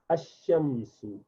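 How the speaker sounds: Ash-Shamsu said slowly, lam dropped onto the doubled sh; sun letter reading. Shown as a demonstration. Teacher demonstrating slowly for students. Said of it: "straight onto Sheen rather than Lam".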